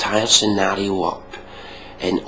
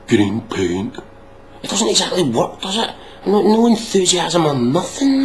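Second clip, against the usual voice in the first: exasperated rant; 11 semitones higher than usual. Real, not acted. Ranting at the clip's women, high and exasperated. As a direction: push it up into disbelief.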